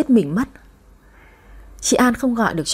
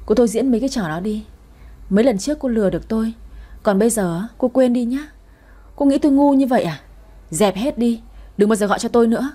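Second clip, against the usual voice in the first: angry refusal; 2 semitones higher, faster than usual. Acted.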